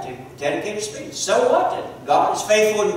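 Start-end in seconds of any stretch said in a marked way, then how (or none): 1.1-1.7 "So what?" thrown out high and loud. Shown as a demonstration. Preacher presses the congregation for the point, loud and high. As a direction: challenge the room with it. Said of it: "should ask the question".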